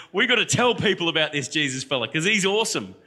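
mock-urgent enthusiasm; eager urging. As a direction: re-enact an enthusiastic pitch. Retells his eager plea to council.

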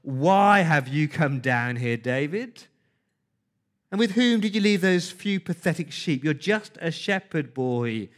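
mild mock anger at little David; angry. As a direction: Eliab scolding David in anger. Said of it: "he burned with anger and asked".

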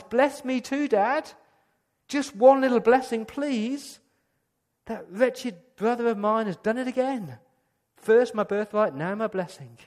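high, loud, pleading wail; anguished loud cry. Acted. Esau crying out to his father, high and anguished. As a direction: beg for the blessing with bitter anguish. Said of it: "in an anguished, loud, bitter cry".

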